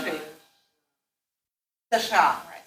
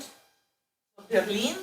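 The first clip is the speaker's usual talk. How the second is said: slow, careful "Berlin" with a rolled r; teacher drawing out "Berlin" for the class; model Berlin; much slower than usual. Shown as a demonstration. Teacher models the city name for students, slowly and clearly.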